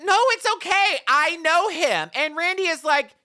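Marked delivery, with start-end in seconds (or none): 0.0-2.1 much higher, louder, hurried reassurance; flustered wife. Retold or imitated. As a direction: squeak it out like she's caught red-handed. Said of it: "she's all like".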